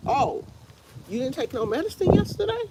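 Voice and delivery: high, fast, teasing taunt; mocking body voice. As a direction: let her body taunt her, high and quick. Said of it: "it was like".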